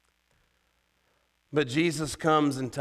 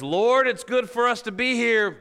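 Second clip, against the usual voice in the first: acted-out eager outburst, pitched way up; caught-up Peter; 11 semitones higher, 7 dB louder than usual. Preacher quoting Peter on the mountain, caught up in excitement. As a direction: imitate Peter in loud, high excitement. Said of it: "He was caught up in the moment".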